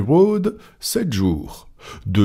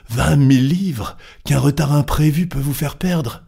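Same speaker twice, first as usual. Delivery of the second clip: high, alarmed protest; astonished exclamation; 7 semitones higher than usual. A narrator's reading. Sullivan warns Fogg of the risk, astonished. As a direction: push the pitch up in disbelief. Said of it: "s'écria John Sullivan".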